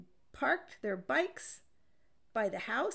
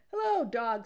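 louder, cheery greeting; loud hello; 2 semitones higher, 8 dB louder than usual. A narrator's reading. Duck calling hello to Dog loudly. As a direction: hail him brightly.

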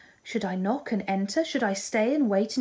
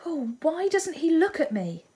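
anguished plea; 9 semitones higher than usual. Acted. Marianne distressed at ball.

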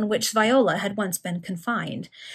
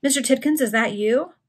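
higher-pitched, questioning call; tremulous calling; 4 semitones higher than usual. Acted. Person in the street calling after him, tremulous. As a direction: call the name tentatively, lifting at the end. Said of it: "in a low and tremulous tone".

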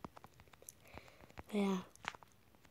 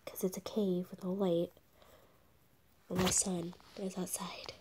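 whisper; 6 dB quieter than usual. Real, not acted. Explaining the dark cave.

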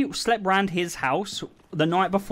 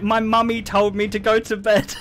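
imitating a kid; 2 semitones higher than usual. Mimics a kid sent to bed.

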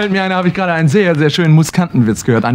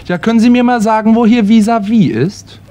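eager stranger; 7 semitones higher, 4 dB louder than usual. Acted. Stranger asks at door.

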